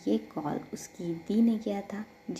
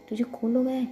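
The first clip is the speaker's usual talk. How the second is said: louder, higher shocked question; alarmed sister; 4 semitones higher, 6 dB louder, much faster than usual. Acted. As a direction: react as if the news alarms you.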